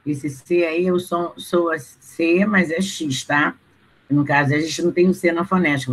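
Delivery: ordinary delivery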